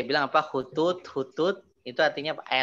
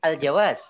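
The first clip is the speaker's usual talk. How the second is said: "Al jawaz" set apart and said louder; loud, separate "Al jawaz"; intonation after pause; 2 semitones higher, 6 dB louder than usual. Shown as a demonstration. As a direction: deliver "Al jawaz" as its own stressed phrase. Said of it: "Ada jeda begitu pakai intonasi".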